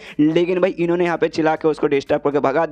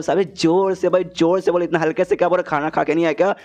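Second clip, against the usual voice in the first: mock shouted order; 3 semitones higher than usual. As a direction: imitate a scolding yell without really shouting. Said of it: "जो सुनते चिल्लाता है".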